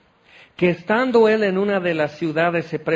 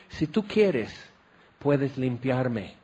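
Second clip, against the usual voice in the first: slow soft plea; 3 semitones lower, 3 dB quieter, slower than usual. Acted. Listener pleading with Jesus.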